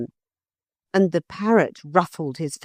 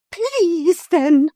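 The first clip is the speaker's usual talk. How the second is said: high, loud grudging please; burst of temper; 13 semitones higher, 6 dB louder than usual. A narrator's reading. Motor lady grudgingly giving in to the hippogriff. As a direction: bite out the word. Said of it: "in a burst of temper".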